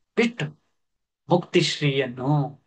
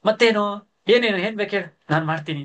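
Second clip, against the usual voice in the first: happily; 6 semitones higher, faster than usual. Acted. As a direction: brighten up with joy. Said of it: "ಸಂತಸದಿಂದ ಚೆನ್ನ". (ಸಂತಸದ ದನಿ)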